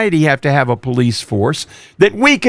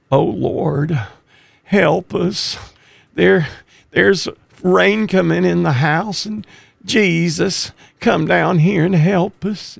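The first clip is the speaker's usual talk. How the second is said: weak pleading prayer; 3 semitones higher than usual. Retold or imitated. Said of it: "the prayer was not this".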